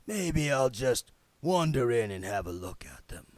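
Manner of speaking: breathy creeping whisper; unvoiced sly bogey whisper. A narrator's reading.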